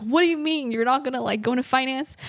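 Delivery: imitating alarmed parents, pitch jumping up; parents freaking out. Parents reacting to their child's artist plan, freaking out. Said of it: "and they're freaking out".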